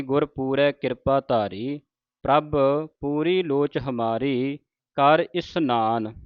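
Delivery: measured, reverent reading of scripture; slow devotional reading; slow recitation. Shown as a demonstration. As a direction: recite each word slowly and deliberately. Reciting Gurbani lines slowly.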